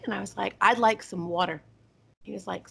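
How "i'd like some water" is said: "water" with a rounded aw vowel; Eastern "water". Retold or imitated. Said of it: "this Eastern girl saying water".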